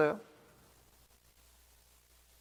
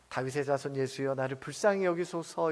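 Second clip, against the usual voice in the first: soft, low, subdued plea; hushed low-key demonstration of begging; soft-spoken plea; 7 semitones lower, 11 dB quieter than usual. Shown as a demonstration. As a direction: say it gently, far too quietly to carry. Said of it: "이렇게 부드럽게 얘기했다면".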